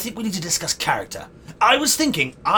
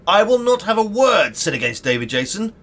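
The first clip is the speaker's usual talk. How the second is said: indignant defence; 4 semitones higher, 4 dB louder than usual. Acted. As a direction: defend your idol with lofty outrage. Defending his idol from a sceptic.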